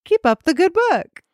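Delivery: high, hammed-up posh British voice; posh British accent. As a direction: read it as a plummy mock-British lady, pitch swooping up. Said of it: "now I'm going very posh with my accent".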